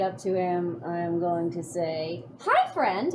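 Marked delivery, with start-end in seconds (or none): 2.4-3.1 high, sweet little princess greeting; Princess Hedgehog voice. Acted. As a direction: chirp it like a sweet fairy tale princess. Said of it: "in my best Princess Hedgehog voice".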